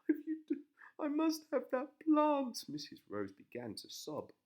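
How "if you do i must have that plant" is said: whiny wife voice. A narrator's reading. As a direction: whine it high. Wife demands.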